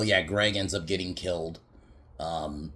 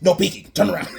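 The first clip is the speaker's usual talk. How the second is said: higher, louder, laughing through it; mock whiny command breaking into laughter; 13 semitones higher, 7 dB louder, faster than usual. Killer scolds Cindy while hiding, laughing mock whine. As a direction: play the killer's silly order while cracking up.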